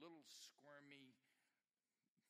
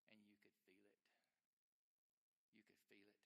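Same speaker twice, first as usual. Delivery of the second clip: dropping to a near-hush, much softer; a softer, moved repeat of the line to the congregation; hushed echo; 3 semitones lower, 14 dB quieter than usual. Acted. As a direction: let it sink in quietly. Sermon emotional echo.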